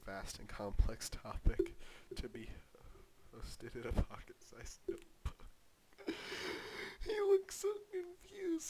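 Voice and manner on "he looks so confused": laughing. Real, not acted. Laughing at the video.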